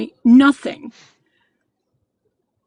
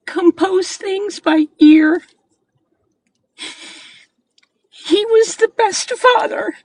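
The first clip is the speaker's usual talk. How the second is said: real crying, pitch pushed up; 5 semitones higher than usual. Real, not acted. Mother crying about her ill son, voice breaking. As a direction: voice breaking high with tears. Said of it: "I'm getting emotional".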